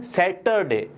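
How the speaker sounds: सैटरडे with a clear r, "sa-tur-day"; r pronounced. Shown as a demonstration. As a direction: sound the r in सैटरडे. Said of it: "आर यहाँ पे बोलना है".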